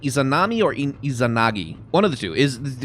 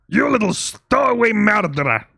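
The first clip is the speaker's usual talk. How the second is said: higher, louder retry of a Russian sailor; attempted Russian accent; 5 semitones higher, 4 dB louder than usual. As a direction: strain for a big Russian accent, higher pitched. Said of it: "can't really do a Russian accent when I'm trying to do that voice".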